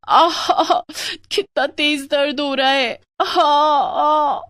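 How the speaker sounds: high, loud pained groans; drawn-out aahs of stomach pain; crying out in pain. Acted. Wife alone at night, groaning in pain, high and loud. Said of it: "दर्द के कारण चिल्लाने लगती है".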